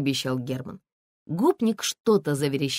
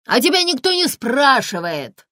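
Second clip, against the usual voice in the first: high, loud snarl at her; yelling; 9 semitones higher, 7 dB louder than usual. A narrator's reading. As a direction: bark her down. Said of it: "заорал гопник". (заорал во весь голос)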